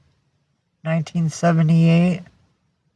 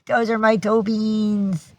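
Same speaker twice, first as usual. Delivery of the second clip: voicing the dog; 4 semitones higher than usual. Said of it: "He says".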